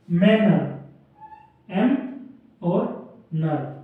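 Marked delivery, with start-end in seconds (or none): 1.7-3.7 एम and नर said apart; syllable split. Shown as a demonstration. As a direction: break मैनर into एम and नर.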